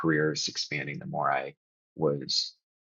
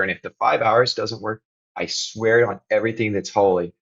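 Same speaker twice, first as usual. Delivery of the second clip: earnest parental promise; 3 semitones higher than usual. Retold or imitated. Parent promising two squabbling kids it will pass, insistent and building. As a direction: bargain insistently, pitch lifted, as if reasoning with kids. Acted plea to arguing kids.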